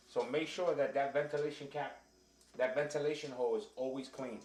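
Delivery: muffled behind a mask; through a face mask. Real, not acted. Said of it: "it's hard to talk with a mask on".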